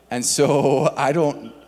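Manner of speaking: laughing through the words. Real, not acted. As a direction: chuckle while speaking. Laughs at his knee story.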